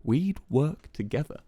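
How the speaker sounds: slow, deliberate offer. A narrator's reading. Quackity proposing a partnership to Wilbur, slowly. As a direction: draw each word out slowly. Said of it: "spoke slowly".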